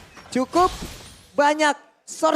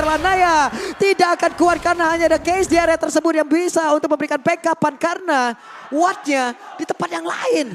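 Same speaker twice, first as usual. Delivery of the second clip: esports caster; 2 semitones higher than usual. Real, not acted. Live play-by-play caster.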